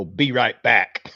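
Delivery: put-on child's mix-up. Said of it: "He'd go, ... instead of".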